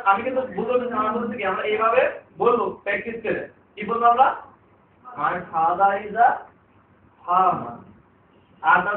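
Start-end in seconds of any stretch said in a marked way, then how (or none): 5.0-7.7 slow, with farmer clipped short; slow model sentence. Shown as a demonstration. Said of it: "উচ্চারণ হবে একদম shortly".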